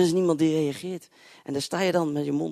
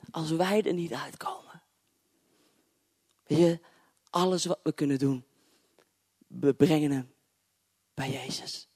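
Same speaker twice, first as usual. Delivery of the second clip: whispered. Acted. Preacher urging the congregation to bring troubles to Jesus, whispered. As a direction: lean close and whisper it. Intimate sermon point.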